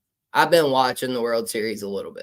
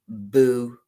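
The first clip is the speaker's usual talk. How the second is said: startling boo; 4 semitones lower than usual. Pretend.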